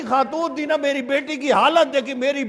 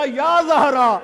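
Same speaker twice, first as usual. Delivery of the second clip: slow calling; much slower than usual. Retold or imitated. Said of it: "کہتی ہے".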